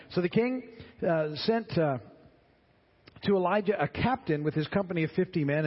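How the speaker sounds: scripture reading. Acted. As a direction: read the passage out to the class. Reads scripture between comments.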